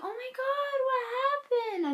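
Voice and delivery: high, near-crying mock mom panic; alarmed mom. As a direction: play the mom half-sobbing in shock. Mom reacting to injured child.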